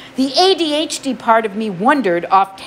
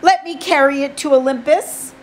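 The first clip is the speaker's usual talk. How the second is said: higher, urgent plea; pleading boy voice; 5 semitones higher than usual. Acted. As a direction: beg with tense politeness. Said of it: "I said".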